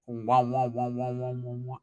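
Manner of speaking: mock stoned babble. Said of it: "out of this world".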